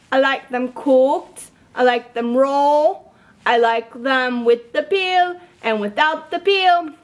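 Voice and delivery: friendly chef character chatting; lightly voiced puppet chef. Chef Kabob puppet chatting to children, friendly. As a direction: play a cheerful chef puppet talking to kids.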